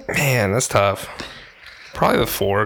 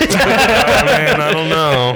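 nervous; 3 semitones higher, 4 dB louder, much slower than usual. Retold or imitated. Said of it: "I get nervous. I'd be like".

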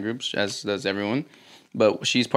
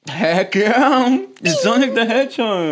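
loud, high hyped cheer; excited shout; 10 semitones higher, 5 dB louder, slower than usual. Real, not acted. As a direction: cheer it like a hype man. Hyping Sonic the Hedgehog.

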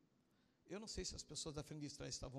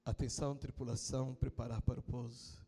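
lightly imitated aircraft captain, louder; captain's announcement; 2 semitones lower, 6 dB louder than usual. Commander tells the crew to prepare for landing, imitated announcement. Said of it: "o comandante da aeronave anunciou".

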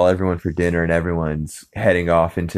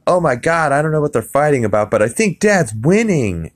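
put-on high, fast, alarmed teen voice; whiny teen boy; 8 semitones higher, 3 dB louder than usual. Chris catching his parents making out, high and panicked. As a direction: blurt it out like a shocked kid. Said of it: "Chris is like".

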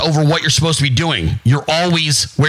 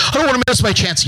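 higher, whining worrier; whiny mock; 7 semitones higher, faster than usual. Mocking people afraid of missing out, high whine. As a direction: mimic a scared person fretting.

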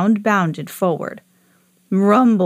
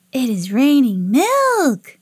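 high, slow alien chorus; Marsmen calling out; 5 semitones higher, slower than usual. A narrator's reading. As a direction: chant it out like little Martians. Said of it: "they called out together".

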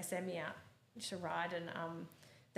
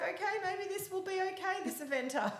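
grudging coach; 13 semitones higher, 3 dB louder than usual. Retold or imitated. Coach reconsiders.

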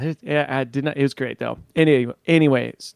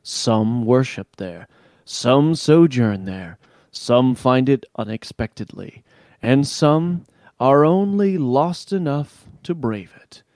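dramatic narration. Acted. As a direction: set the mystical scene slowly. Narrates lore intro slowly.

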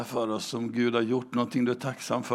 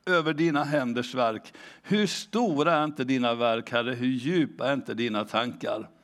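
scripture reading. Acted. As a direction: read the verse with reverence. Reads Psalm 92 aloud.

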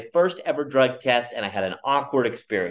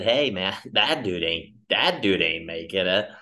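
mocking laugh; 5 semitones lower than usual. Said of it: "she might have said".

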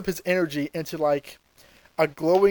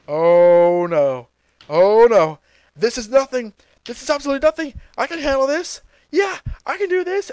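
Frieza bluffing; 4 semitones higher than usual. Retold or imitated. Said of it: "Frieza somehow forgets about this".

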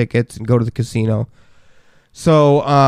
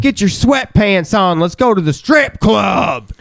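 higher hammed-up dad voice; mock pushy dad; 7 semitones higher than usual. Mocking dad inviting everyone to strip club, hammed-up higher voice. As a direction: imitate a creepy eager dad.

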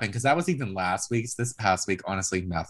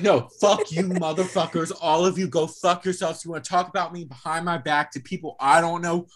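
Dolores; 6 semitones higher than usual. Retold or imitated. Podcaster acts out a woman cursing out the group, mock fury. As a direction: act out a furious telling-off, pitched up.

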